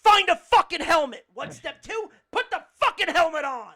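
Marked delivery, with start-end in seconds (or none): 0.0-1.2 loud, raised, forceful order; emphatic command. Acted. Emphatic answer to own step question. 2.3-3.7 loud exasperated instruction; emphatic command. Acted. Emphatic answer to own step question.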